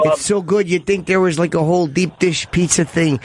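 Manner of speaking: put-on Chicago accent; broad Chicago local talk. Shown as a demonstration. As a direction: brag in a hammed-up Chicago voice. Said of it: "his Chicago impression is spot on".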